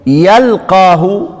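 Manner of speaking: يلقاه slow with stressed ق; shown pronunciation. Shown as a demonstration. Teacher showing the shadda reading, slow. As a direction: draw out يلقاه. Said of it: "وتشديد إيه؟".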